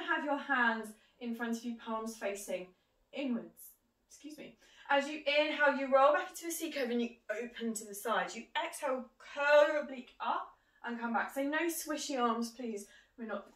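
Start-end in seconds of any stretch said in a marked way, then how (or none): 4.1-4.6 hiccup caught mid-class; holding back a hiccup; suppressing hiccups. Real, not acted. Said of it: "I've got hiccups". 4.9-13.5 talking through hiccups; fighting back hiccups; suppressing hiccups. Real, not acted. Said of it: "I've got hiccups".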